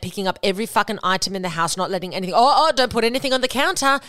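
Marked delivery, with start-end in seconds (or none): 2.3-4.0 higher, mock-alarmed fussing; overdramatic. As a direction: mockingly act out a huffy overreaction. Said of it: "they will just be so dramatic".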